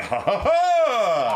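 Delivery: slow, hammed-up pirate laugh, high; three big ha's like a cartoon pirate; a hammy pirate cackle, loud and drawn out. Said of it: "I picture this fucking pirate".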